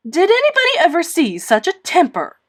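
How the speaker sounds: acted outraged neighbour; horrified exclamation. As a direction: gasp it out in shock. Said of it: "exclaimed the horrified Missus Rachel".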